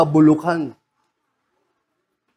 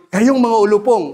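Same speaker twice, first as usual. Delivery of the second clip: scolding; 3 semitones higher, 3 dB louder, faster than usual. Retold or imitated. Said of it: "sasabihin mo doon".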